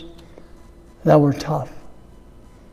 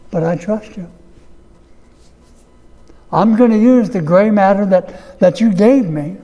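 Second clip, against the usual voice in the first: sample prayer. Shown as a demonstration. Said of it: "a prayer to God".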